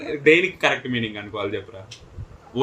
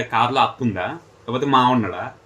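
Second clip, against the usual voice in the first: mocking; slower than usual. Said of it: "ఎక్కిరించి మాట్లాడకండి".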